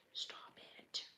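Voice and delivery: breathless whispered stop it; gushing whisper. Real, not acted. Builder whispers at the cute candy in delight. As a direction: hush it like a secret delight.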